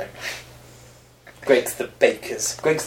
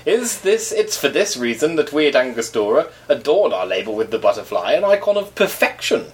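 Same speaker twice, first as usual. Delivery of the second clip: put-on Caribbean accent. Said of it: "in my best Caribbean accent".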